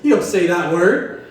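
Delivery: mock scolding, rising; scolding the old men at the coffee shop about a slur; lecturing the old guys. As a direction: wag a finger at them. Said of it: "I told those old guys that".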